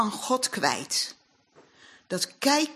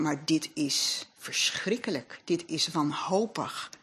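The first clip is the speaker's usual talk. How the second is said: low, soft and slow, voicing the spies' despair; 3 semitones lower, 5 dB quieter than usual. Preacher voicing the despairing spies, soft and slow. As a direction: let it sink into hopelessness.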